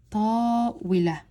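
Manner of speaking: long "ta", then "wi, la" joined as one; blended syllables. Shown as a demonstration. Teacher showing how to blend these two, two beats. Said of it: "I blend these two together".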